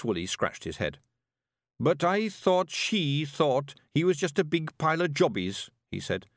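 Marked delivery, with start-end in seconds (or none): 1.8-5.7 rowdy little Scots pixie voice; broad Scottish accent. Acted. Willie speaks.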